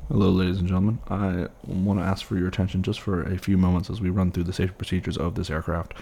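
safety announcement over the PA; flight attendant. Acted. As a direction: read the safety briefing to the cabin. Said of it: "I'll get on the horn".

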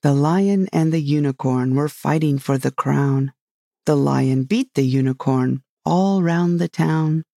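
measured verse recitation; reciting an old rhyme. A narrator's reading. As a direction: recite it line by line with pauses. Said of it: "repeating to herself as she ran the words of the old song".

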